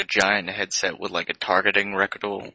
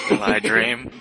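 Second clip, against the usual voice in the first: pitched way up, pleading; high plaintive computer; 12 semitones higher, 3 dB louder, slower than usual. Pretend. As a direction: ask it like a frightened machine. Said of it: "HAL computer bit".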